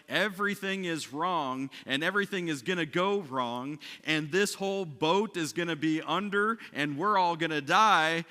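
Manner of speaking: acted-out doom; mock panic. Voices the boat's panic.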